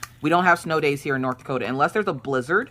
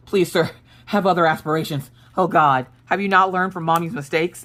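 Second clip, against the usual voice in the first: exasperated motherly plea, a bit louder; mock pleading; 3 semitones higher, 4 dB louder than usual. Mom begging her son to aim higher, mock pleading. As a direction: plead in mock despair, half amused.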